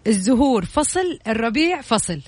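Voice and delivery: slow, deliberate word-by-word; backwards speech. Shown as a demonstration. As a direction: spell each word out slowly. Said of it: "أنا هعيدها بالمقلوب كمان مرة".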